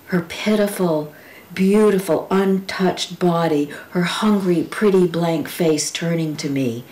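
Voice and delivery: steady, vivid recital of a poem; poem reading. Acted. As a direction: paint each memory plainly and carefully.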